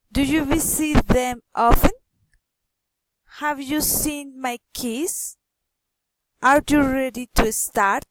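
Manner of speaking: questions climbing on OFTEN, KEYS and START; rising intonation. Shown as a demonstration. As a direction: lift the pitch at the end, on OFTEN, KEYS, START. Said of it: "rising intonation".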